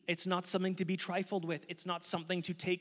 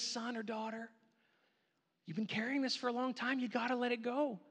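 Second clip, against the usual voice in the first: God voiced; 2 semitones higher, 5 dB quieter than usual. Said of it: "he comes alongside of you and he says".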